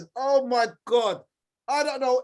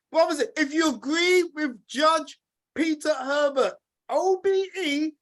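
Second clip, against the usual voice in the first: calling out to the crowd. Real, not acted. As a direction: shout it out to the brothers and sisters. Host rallying the audience.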